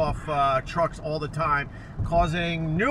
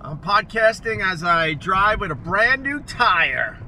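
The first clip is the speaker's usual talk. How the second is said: over enunciating; 3 dB louder than usual. Acted. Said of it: "Oh, God".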